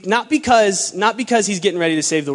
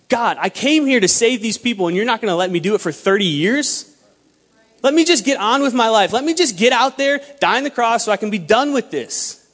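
grumbling complaint; 4 semitones higher than usual. Acted. Acting out Jesus grumbling to God about thirty years, exasperated complaint. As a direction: complain with rising exasperation, punching key words. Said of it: "grumble and complain about how".

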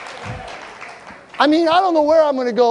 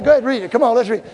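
ordinary talk

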